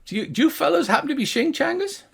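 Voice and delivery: high gnome voice, hesitant; flustered gnome guard. Acted. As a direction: admit you don't know.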